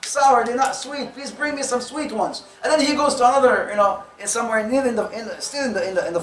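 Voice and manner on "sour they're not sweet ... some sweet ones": mildly upset. Retold or imitated. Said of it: "is getting upset".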